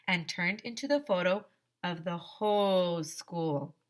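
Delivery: put-on lively read-aloud to children; children's book read-aloud voice; story narration. A narrator's reading. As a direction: read the story to a class, playing the characters.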